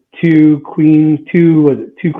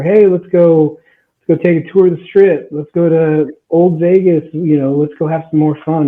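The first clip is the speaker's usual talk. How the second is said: higher, upbeat calling through a door, imitated; eager rousing call; 4 semitones higher than usual. Boyfriend's parents knocking on the door, imitated eager call. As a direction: chivvy everyone along with mock enthusiasm.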